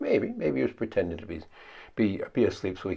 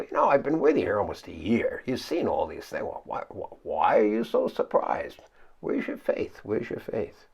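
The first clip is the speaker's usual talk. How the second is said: puzzled. Retold or imitated. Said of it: "Or maybe he was puzzled".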